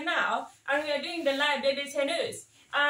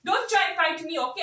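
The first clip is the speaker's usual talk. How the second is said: mock warning; 3 semitones higher, 7 dB louder than usual. Auntie warning the chat.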